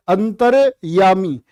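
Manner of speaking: अंतर्यामी stretched syllable by syllable; slow demo. Shown as a demonstration. Teacher drawing out अंतर्यामी for the class. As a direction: sound out अंतर्यामी very slowly. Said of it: "क्या बोलोगे".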